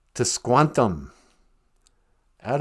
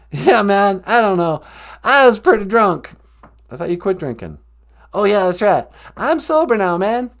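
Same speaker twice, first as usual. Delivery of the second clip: George W. Bush impression; 3 dB louder than usual. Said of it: "George W. Bush".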